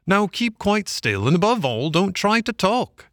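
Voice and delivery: gentleman fussing over a sick washerwoman. A narrator's reading. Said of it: "said the gentleman".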